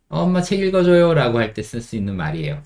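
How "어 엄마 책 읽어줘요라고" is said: put-on child asking. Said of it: "그때 아이들이".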